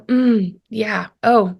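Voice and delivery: understated listening murmurs; empathetic ooh. Shown as a demonstration. Wife hearing her husband's hurt, empathetic. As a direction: hold space with small sympathetic sounds. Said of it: "it's an audible response".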